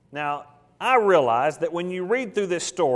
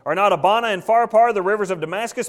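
raised, indignant complaint, read aloud; mildly furious; 3 semitones higher, 4 dB louder than usual. Acted. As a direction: voice an affronted man with a touch of fury. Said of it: "Naaman was furious and went away and said".

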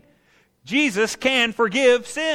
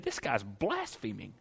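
Pharisees' accusation; 11 semitones lower, 14 dB quieter than usual. Acted. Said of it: "the Pharisees said".

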